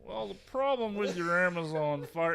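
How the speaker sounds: smug expert voice, lightly imitated; know-it-all tone. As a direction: act like you know exactly what you're talking about. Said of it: "I know what I'm talking about" tone".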